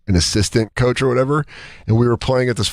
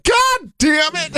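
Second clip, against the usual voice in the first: very high, slow, drawn-out groan; mock despair; much slower than usual. Coach told his best player is out, slow high wail.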